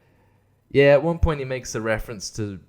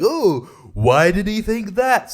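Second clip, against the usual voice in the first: mock pondering; 8 semitones higher, 5 dB louder, slower than usual. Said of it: "and be like".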